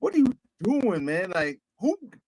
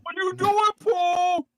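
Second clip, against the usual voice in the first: Cam impression; 8 semitones higher than usual. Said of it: "I'm gonna put my Cam voice on".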